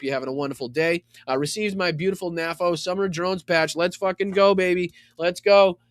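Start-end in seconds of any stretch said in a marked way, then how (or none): 3.8-5.8 higher, louder celebratory cheer; real burst of excitement over a gift; hyped cheer. Real, not acted. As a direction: pump it up like a fan. Hyped about receiving a patch.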